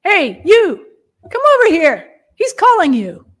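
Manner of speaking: loud, high summoning shout; crowd calling out. A narrator's reading. Crowd passes the summons to the beggar, calling loudly. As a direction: call someone over across a crowd. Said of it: "an echo from the crowd".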